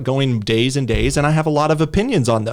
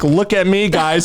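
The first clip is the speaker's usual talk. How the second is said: higher, showy mock boast; 4 semitones higher than usual. Host imitating attention-seeking posters, mocking. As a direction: crow it as a send-up. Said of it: "It was just mocking, like".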